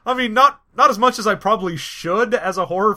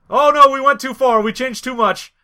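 higher, hammed-up regretful confession; mock dismay, building louder; panicked seventies voice; 4 semitones higher, 4 dB louder than usual. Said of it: "they were like".

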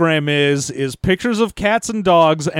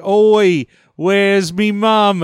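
mock cockney; 4 dB louder, much slower than usual. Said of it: "that chimney sweep was like".

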